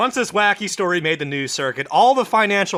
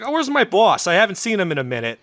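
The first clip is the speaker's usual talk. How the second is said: New York secretary, pitched up; New York accent; 3 semitones higher than usual. Acted. Secretary who hasn't seen the boss in a minute, New York accent. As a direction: put on a New York accent, then quicken. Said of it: "his secretary's got a fucking New York accent".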